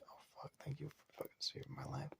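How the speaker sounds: a very soft, breathy whisper of relief; barely audible thank-you, breathing out the tension; relieved whisper. Acted. Relieved inner thought.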